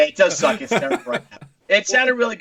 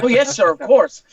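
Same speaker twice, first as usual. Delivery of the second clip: higher, louder mock-eager servility; obliging waiter; 4 semitones higher, 6 dB louder than usual. Waiter to a superior-sounding customer, mock-obliging. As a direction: play the waiter snapping to obedience. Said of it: "I'm like".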